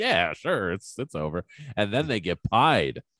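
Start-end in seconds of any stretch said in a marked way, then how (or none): 0.0-1.4 put-on nonchalant tone. Retelling Mike's reply to Debbie at the movie's end, mock-nonchalant Mike impression. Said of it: "It's like so nonchalant".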